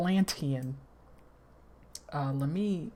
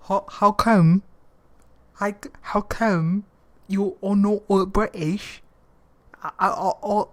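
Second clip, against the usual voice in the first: much louder, incredulous demand; loud disbelief; 2 semitones higher, 10 dB louder than usual. Real, not acted. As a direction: shout your disbelief at the narrator. Reaction vlogger shouting at audiobook.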